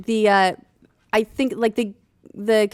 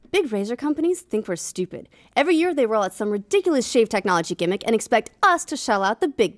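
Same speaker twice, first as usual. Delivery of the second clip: sexy radio voice; 3 semitones higher than usual. Pretend. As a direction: read it like a late-night radio DJ. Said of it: "I'm gonna read it in my sexy radio voice".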